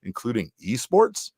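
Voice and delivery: "esports" lifted in pitch at the end; stress on esports. Real, not acted. Sponsor read listing sports on offer, with stress on "esports". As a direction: lean on the word "esports". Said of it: "when I stress esports".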